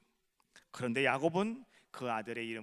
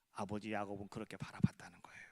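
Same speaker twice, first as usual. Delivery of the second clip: whisper; 6 semitones lower, 5 dB quieter than usual. Acted. Sermon climax hushed.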